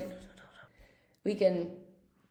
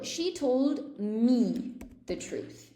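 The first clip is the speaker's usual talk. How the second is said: slowly, each word laid out; slow model sentence; much slower than usual. Shown as a demonstration. Teacher slowly modelling an example for students. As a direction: read it out slow for the learners. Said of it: "so, for example".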